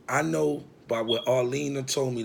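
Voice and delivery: plain reading voice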